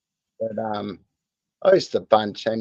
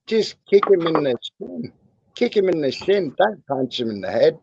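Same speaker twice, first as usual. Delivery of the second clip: raised, urgent telling-off; urgent correction; 3 semitones higher than usual. Real, not acted. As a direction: cut in and correct him, pitched up. Mate scolding about kicking.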